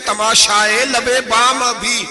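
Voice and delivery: slow, drawn-out recital of verse; slow recited couplet, rising at the last line; poem recitation. Acted. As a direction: savour each word of the couplet, slowly.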